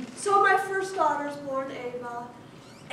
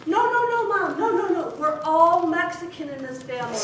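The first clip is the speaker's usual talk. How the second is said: upset protest; 2 semitones higher, 5 dB louder than usual. Retold or imitated. Older daughter protesting for the family, loud indignant kid. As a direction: insist loudly like a child activist. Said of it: "Ava as the spokesperson".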